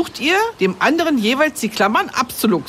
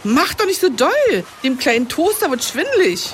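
worried call; 5 semitones higher than usual. Acted. Scolding while toaster spins.

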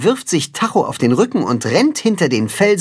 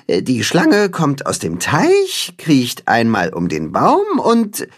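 slow careful repeat; slower than usual. Acted. Timme repeats slowly.

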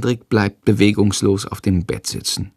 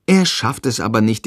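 ordinary delivery

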